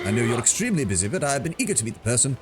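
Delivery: a hint of a pompous British gent. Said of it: "a pompous British, uh, British voice".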